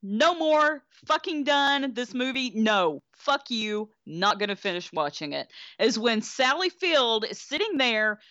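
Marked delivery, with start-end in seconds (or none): 0.0-5.5 fed-up refusal. Retold or imitated. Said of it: "That is where I said".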